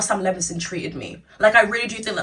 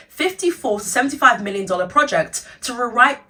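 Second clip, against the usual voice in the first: wearing a retainer; 3 semitones higher than usual. Real, not acted. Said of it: "I have my retainer in".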